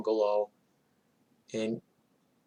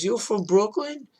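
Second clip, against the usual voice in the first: high-pitched mock-incredulous question; 9 semitones higher than usual. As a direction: imitate the neighbor questioning, voice way up. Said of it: "And Carmen goes".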